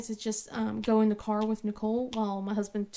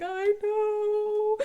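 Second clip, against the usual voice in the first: consoling; 11 semitones higher than usual. Retold or imitated. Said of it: "trying to cheer her up".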